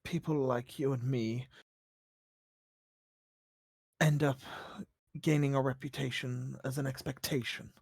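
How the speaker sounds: low, hushed and hesitant; vulnerable game character. Acted. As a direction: confide softly with long pauses.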